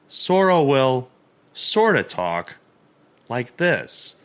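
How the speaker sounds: drawn-out slow speech; slow motion. Shown as a demonstration. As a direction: drag each word out slowly. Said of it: "they just all talk in slow motion".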